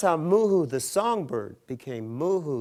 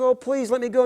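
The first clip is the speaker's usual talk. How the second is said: bird begging; 12 semitones higher, 11 dB louder than usual. Acted. Squeezed bird begs.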